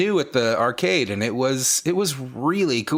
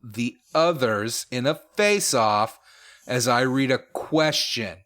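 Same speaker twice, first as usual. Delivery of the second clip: game show rules read. Acted. Reads game rules slowly.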